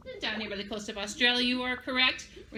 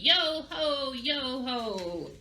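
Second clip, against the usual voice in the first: jolly pirate chant; pirate laugh; much slower than usual. Shown as a demonstration. Teacher asking children to join the pirate laugh, piratey. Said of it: "say it with me".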